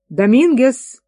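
summoning a friend by name; calling out. Acted. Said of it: "позвал Гомес".

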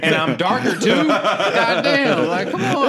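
high and loud, cracking with laughter; laughing mock outrage. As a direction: protest the cosmic joke while laughing. Mock reincarnation complaint, laughing.

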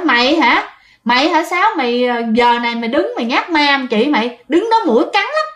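lightly acted aunt, pitch lifting at the end; aunt calling out. Aunt asks if it is her sister playing ghost, lightly acted challenge. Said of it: "dì Năm mới cất tiếng".

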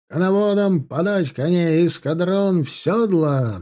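high drawn-out command; captain's shout. Acted. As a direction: bellow the order up high. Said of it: "донёсся крик капитана".

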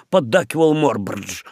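usual speaking voice

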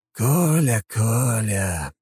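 loud, high playful scolding; mock chiding. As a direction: tut at him like a child. Puppeteer chides emperor.

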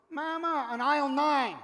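put-on high, loud kid's call across a store; child calling mother. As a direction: imitate a lost child hollering for mom. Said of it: "she recognizes that voice".

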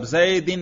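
"zaydin", زیدن with an i in the last syllable; genitive ending. Shown as a demonstration. Teacher asking which case was read, زیدن pronounced "zaydin". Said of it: "جر پڑھا".

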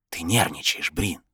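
soft, hushed voice in the head; inner voice. A narrator's reading. Voice in his head addresses Brin, soft and hushed. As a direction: speak softly like a disembodied voice.

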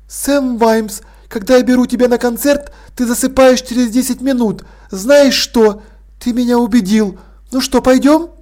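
a gracious hostess, gently amused; poised lady Sibyl. Acted. Sibyl teases Vimes.

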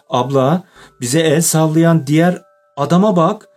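agitated, high-pitched call to a sister; stammering shout. A narrator's reading. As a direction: narrate an urgent, startled shout. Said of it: "diye bağırdı". (heyecanla, telaşla bağırarak)

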